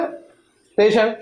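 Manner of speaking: اسٹیشن said slowly as ateshan, no s; mock Faisalabad ateshan; imitating dropped s. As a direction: drag out اسٹیشن with the s left out. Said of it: "ایس بھی ہٹا دیں گے".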